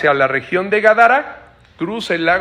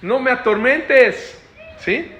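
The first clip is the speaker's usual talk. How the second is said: higher, drawn-out begging; possessed man begging Jesus, voice raised; pleading possessed man; 6 semitones higher, slower than usual. Retold or imitated. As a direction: plead not to be tormented. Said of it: "llegó y dijo".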